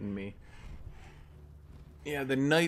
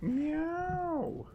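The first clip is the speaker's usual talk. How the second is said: much higher squeaky meow and greeting; high cat voice; much slower than usual. Pretend. Streamer greeting the game cat in a high squeaky voice. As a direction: talk to the kitty like a cartoon.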